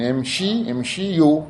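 امشيو broken as "imshi", then "imshiyu"; teacher modelling the "i" after shin in امشيو; kasra on shin. Shown as a demonstration. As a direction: build up امشيو from امشي, clear "shi". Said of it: "بكسر الشين".

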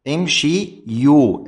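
امشي يو said slowly, split between shi and yu; slow root form. Shown as a demonstration. Teacher reconstructing the verb for students, slowly spells it out. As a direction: stretch امشي يو apart slowly. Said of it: "من الفعل الآن".

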